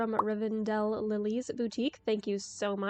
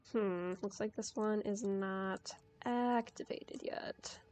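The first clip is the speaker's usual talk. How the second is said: whispering; 5 dB quieter than usual. Real, not acted. Checking an inactive wheel.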